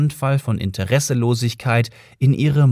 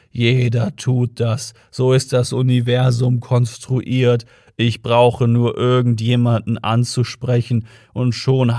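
lightly voiced weary, self-pitying robot, slow in places; gloomy robot. Depressed Marvin tells Ford everyone hates him, slow gloomy moan. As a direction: drag the words out like nothing matters anymore.

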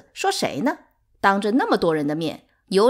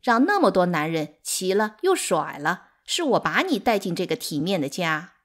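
scornful tirade, building higher and louder; hysterical; 6 semitones higher, 5 dB louder than usual. A narrator's reading. Third wife cursing an ungrateful rival, hysterical. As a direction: spit insults, climbing into a furious threat. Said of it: "歇斯底里地大笑着说".

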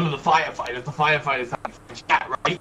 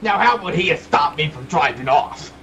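raised, protesting voice; indignant yelling. Acted. Suspect disputing firefighter's story to police, indignant yelling. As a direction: yell the protest at the officer. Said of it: "Stop yelling".

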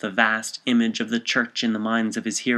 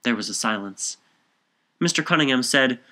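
ordinary delivery, nothing marked

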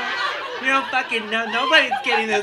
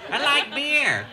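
ghost voice; 7 semitones higher, slower than usual. Pretend. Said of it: "ghost of Paso Robles".

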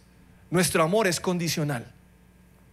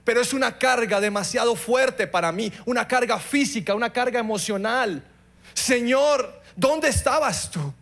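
tearful prayer; 4 semitones higher than usual. Retold or imitated. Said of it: "Y le dije entre lágrimas".

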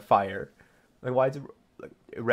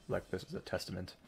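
low, softer measured reading; dialogue read-aloud; 5 semitones lower, 9 dB quieter than usual. Acted. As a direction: read the character's line evenly and low. Reads game dialogue.

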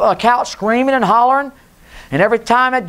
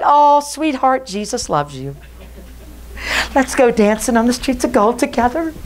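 a sugary, permissive pastor voice, raised and gentle; 4 semitones higher than usual. Pretend. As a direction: parody the preacher who never calls anyone to repent. Mocking a soft modern preacher.

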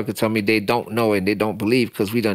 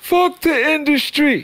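slow, high, defiant declaration; 3 dB louder, slower than usual. Real, not acted. Guest being frank about the industry, defiant. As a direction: drag it out and spit it. Blunt frank answer asked for.

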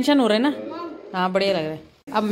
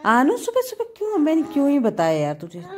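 exasperated cry; 7 semitones higher than usual. Real, not acted. Exasperated at crying son. (बेटे पर ऊँची आवाज़ में झल्लाना)

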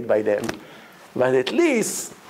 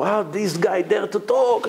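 indignant president; 5 semitones higher than usual. Retold or imitated. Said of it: "the president is a very rich guy".

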